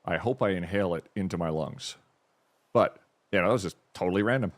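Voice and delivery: talking with a tissue-plugged nose; blocked nose from a tissue; tissue up one nostril. Real, not acted. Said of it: "I've stuffed a little bit of tissue up my nose".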